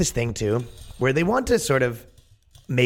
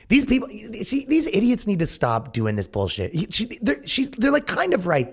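mock high voice; 11 semitones higher than usual. Mocking the organizers, voice pitched up.

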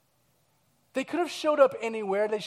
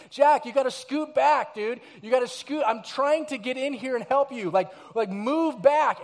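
put-on louder, higher pleading with a toddler; pleading through a door; 4 semitones higher, 5 dB louder than usual. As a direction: coax the stuck kid back from the door. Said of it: "I'm trying to reason with him".

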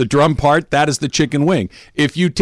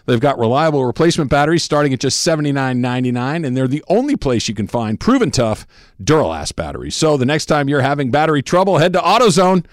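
upbeat radio ad voice; ad read. Acted. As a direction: sell it like a live spot. Host reads AutoZone ad.

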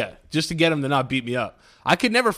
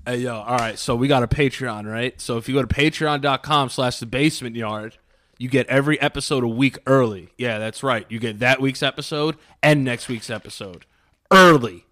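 manly ad read. Shown as a demonstration. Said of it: "I'll say it like a real man".

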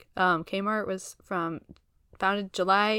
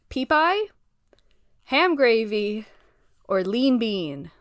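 dramatic quiz options; 2 semitones higher, 6 dB louder than usual. Acted. Quizmaster reading options.

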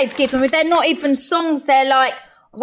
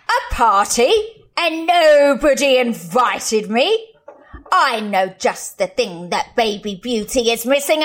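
witch voice; 2 semitones lower than usual. Shown as a demonstration. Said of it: "My first bit I've got to say is like".

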